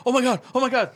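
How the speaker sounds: high, giddy fan squeal; excited squeal. Retold or imitated. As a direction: gush like a thrilled kid. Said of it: "I'm like".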